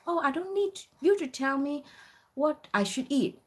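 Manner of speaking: high-pitched mock rude customer. Older customer to a student server, rudely. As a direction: imitate a customer rudely refusing advice. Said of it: "so rude. She said".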